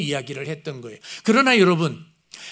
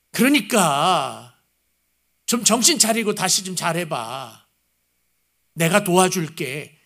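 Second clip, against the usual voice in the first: gentle father's plea; slower than usual. Retold or imitated. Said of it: "아버지의 마음이 맨 마지막에".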